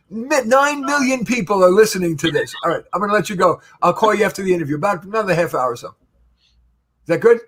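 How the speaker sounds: sweet phone voice for his wife; hand over the phone. Real, not acted. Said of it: "Hold on, it's my wife".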